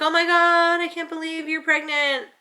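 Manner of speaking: high, gushing squeal; imagined excited reaction. Retold or imitated. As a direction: gush as an expected caller would. Imagined excited call from mother-in-law.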